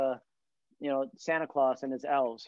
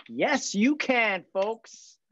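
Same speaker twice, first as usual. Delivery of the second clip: higher, slow presidential cadence; Obama-style stump speech voice, pitched up; Obama impression; 8 semitones higher, 4 dB louder, much slower than usual. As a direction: do Obama addressing the nation. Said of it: "That was Obama's, uh, thing".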